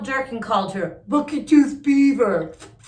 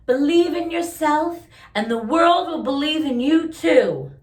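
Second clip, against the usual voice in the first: grandma's voice; 5 semitones higher, 4 dB louder than usual. Acted. Grandma's advice quoted in story.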